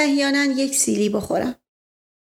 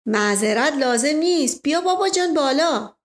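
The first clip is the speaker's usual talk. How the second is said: Asdollah Mirza; 4 semitones higher than usual. Acted. Asdollah replies. (صدای شوخ اسدالله میرزا)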